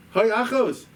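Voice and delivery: anguished scream. Retold or imitated. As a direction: wail for a lost sister. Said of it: "You hear a screaming".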